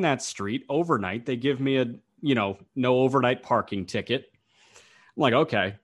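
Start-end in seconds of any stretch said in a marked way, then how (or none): 5.3-5.7 retold fury. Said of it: "I'm red with rage".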